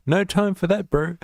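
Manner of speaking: high, loud jokey Kiwi voice; mock Kiwi bloke. Streamer mocking New Zealanders, high loud bro voice. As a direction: toss it off like a cocky Kiwi bro.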